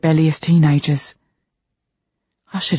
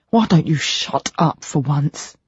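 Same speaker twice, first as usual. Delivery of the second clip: snarl; slower than usual. A narrator's reading. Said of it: "I snarl".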